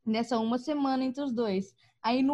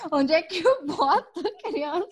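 father; 5 semitones higher, 4 dB louder than usual. Retold or imitated. Father voiced in story.

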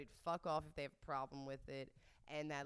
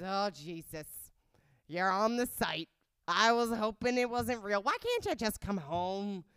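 very loud, drawn-out motherly wail; pleading mom; 4 semitones higher, 12 dB louder than usual. Retold or imitated. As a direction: plead with your daughter, building to a higher wail. Acts out mom pleading with daughter.

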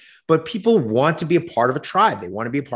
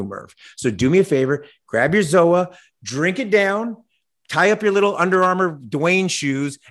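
higher, cocky trash-talk challenge; wrestling promo; 3 semitones higher than usual. Acted. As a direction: call out the rival like a heel on the mic. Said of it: "my promo that I'm cutting on The Rock".

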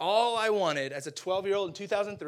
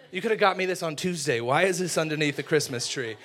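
put-on louder, indignant kid griping; mock complaint; 4 dB louder than usual. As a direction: playfully protest a lousy gift. Acted complaint about dull gifts.

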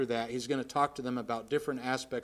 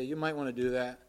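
suggestive tone. Retold or imitated. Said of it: "But in a suggestive tone".

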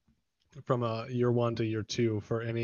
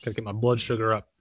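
mouth full. Real, not acted. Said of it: "I'm eating some Sour Patch Extremes".

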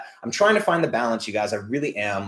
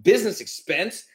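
frustrated rant; 4 semitones higher than usual. Retold or imitated. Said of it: "was like".

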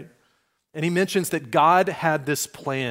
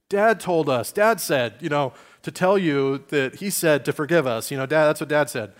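1 nervous brothers; 3 dB louder than usual. Acted. Nervous brothers invoking their dad.

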